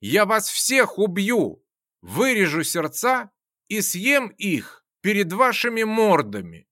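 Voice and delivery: mad yell. Acted. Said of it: "безумно захохотал и заорал".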